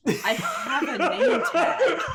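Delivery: laughing. Real, not acted. Repeating, laughing.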